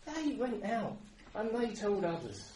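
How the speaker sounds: slow, high, emphatic preaching; exhortatory preaching. Acted. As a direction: drive the point home to the congregation.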